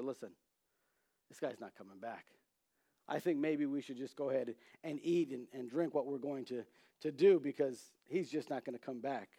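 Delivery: low, soft conspiring; hushed scheming to eat; conspiratorial hush. Acted. Turtle quietly tells the other to eat, hushed.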